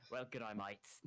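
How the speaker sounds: hammed-up Aussie greeting in an Australian accent. Player greets the party in an Australian accent. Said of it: "this character was gonna be Australian".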